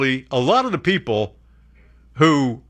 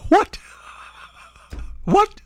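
shocked what. Real, not acted. Mock disbelief at the news.

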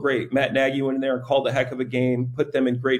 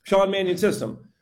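"Sean Mannion system" said higher and a little quicker; quicker tongue twister; 4 semitones higher than usual. Shown as a demonstration. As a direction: run "Sean Mannion system" together in one go. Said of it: "Say that ten times fast".

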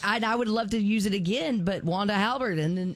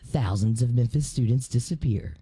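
parody ad voice; 2 semitones lower than usual. Acted. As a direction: read it like a TV ad. Reads parody ad aloud.

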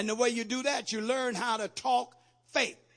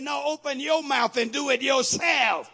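commanding shout; 6 semitones higher, 9 dB louder than usual. Acted. God voiced commanding.

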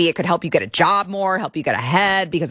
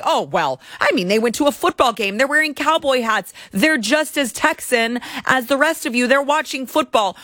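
mock defender; 5 semitones higher than usual. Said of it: "as much as you wanna say".

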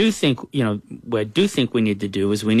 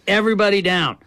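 higher-pitched mock shout to the kids; retold shout; 9 semitones higher than usual. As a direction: call out an urgent order, voice raised high. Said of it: "I shout to the kids".

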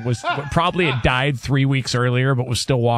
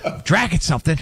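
dad's yell redone. Retold or imitated. Co-host asks for the dad impression again, hammed-up furious yell. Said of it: "Do it one more time".

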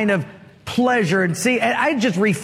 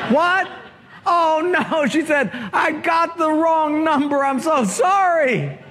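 caught off guard; 7 semitones higher than usual. Acted. Caller realises wrong number.

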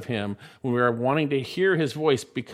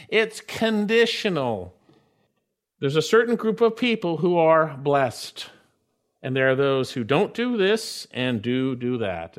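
usual speaking voice

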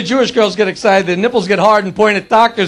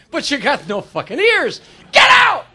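shout; 3 semitones higher, slower than usual. Acted. Joke voices, shouted.

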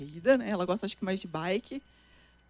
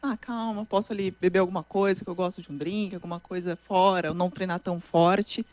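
easygoing self-talk; 4 semitones lower, 4 dB quieter than usual. Retold or imitated. Acts out relaxed off-season self-talk.

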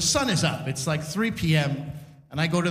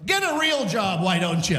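mock a young local's jeer; heckler's jeer. Young local heckles the security guard, mock jeering. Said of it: "looks at the security guard and goes".

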